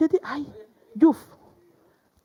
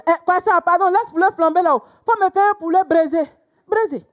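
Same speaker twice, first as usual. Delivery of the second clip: ordering; 7 semitones higher, 4 dB louder than usual. Retold or imitated. Ordering again, raised voice.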